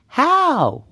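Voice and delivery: high, loud one-word question; high-pitched girl's query; questioning Goldilocks. Acted. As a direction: pipe up with a big how. Goldilocks asks Baby Bear.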